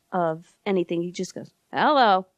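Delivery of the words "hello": a drawled country Hello. Retold or imitated. Funeral home guy picking up the phone in a country voice. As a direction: answer like a Bakersfield hillbilly. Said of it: "in a country voice".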